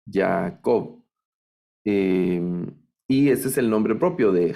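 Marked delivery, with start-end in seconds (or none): 0.1-1.0 Jacob as Ya-a-KOV, end stressed; stress on the last syllable. Shown as a demonstration. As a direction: land on the final syllable of Jacob. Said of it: "Al final el acento". (Jacob acentuado al final)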